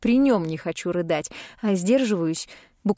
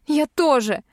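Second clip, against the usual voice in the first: high sobbing outburst, much louder; sobbing cry; 7 semitones higher, 4 dB louder than usual. A narrator's reading. Heroine sobbing back at Dar, high and loud. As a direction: burst out through a sob. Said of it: "всхлипываю я".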